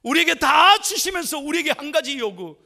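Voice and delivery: high, loud and emphatic; ringing pulpit cry; impassioned preaching. Real, not acted. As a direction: preach it with full force. Preaches at full force.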